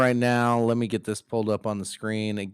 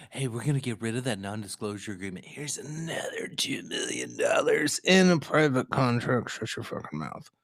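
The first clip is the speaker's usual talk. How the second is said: hushed Bloomberg impression; 6 dB quieter than usual. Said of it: "Mike Bloomberg was like".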